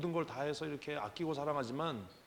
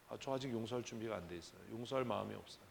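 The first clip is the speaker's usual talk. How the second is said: honest refusal; 3 semitones lower, 7 dB quieter than usual. Shown as a demonstration. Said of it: "그게 진실한 거 아닙니까".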